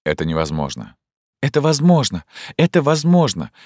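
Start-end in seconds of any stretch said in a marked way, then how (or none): 1.4-3.5 "Это возможно!" cried out much higher and louder; desperate outcry. Acted. Zhenya protests his refusal, desperate and loud. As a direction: fling it back at him, pleading.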